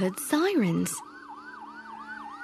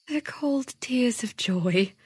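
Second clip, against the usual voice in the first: mother whispering comfort to her daughter; 2 semitones higher than usual. Acted. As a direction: hush it gently, tears of joy. Mother comforting child at night.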